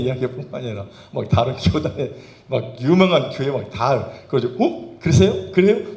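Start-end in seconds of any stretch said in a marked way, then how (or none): 4.6-5.9 high, startled gasps of surprise; acted surprise. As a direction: jump up in pitch as if hearing shocking gossip. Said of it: "제가 깜짝깜짝 놀라요".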